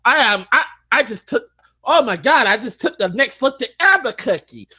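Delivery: a light put-on cartoon bobcat voice; a hint of a cartoon cat voice; imitating Bubsy. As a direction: do Bubsy's annoying chatter, lightly. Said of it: "He talks like this".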